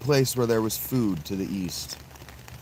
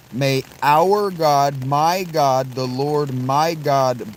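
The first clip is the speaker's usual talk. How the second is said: slow solemn blessing; 2 semitones higher, 4 dB louder, much slower than usual. Acted. Dramatic blessing in Naomi's voice.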